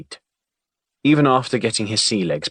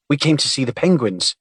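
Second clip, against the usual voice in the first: put-on a boy proud of his answer, pitched up; pleased with himself; 6 semitones higher than usual. A narrator's reading. Boy answering the big man, pleased with himself. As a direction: sure he's got it right, a little smug. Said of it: "pleased with himself".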